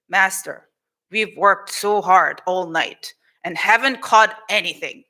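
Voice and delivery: weary, low-pitched plea to the master; tired. Acted. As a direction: report a fruitless night with mild weariness. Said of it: "he's tired".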